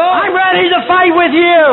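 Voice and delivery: preacher's mock fighting talk; projected braggart's taunt; acted boastful challenge. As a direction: throw down the challenge. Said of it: "to brag and to shout".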